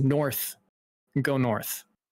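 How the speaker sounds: soft half-whisper, almost no voice, barely audible. Narrating a scene where a woman speaks into the listener's ear: half-whisper. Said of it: "And she whispers".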